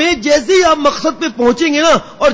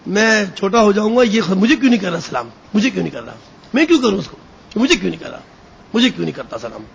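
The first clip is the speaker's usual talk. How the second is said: lower, softer resentful muttering; sulky grumble; 3 semitones lower, 3 dB quieter, faster than usual. Pretend. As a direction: grumble to yourself, offended. Proud man sulking over greetings. (مغرور آدمی کا بڑبڑانا)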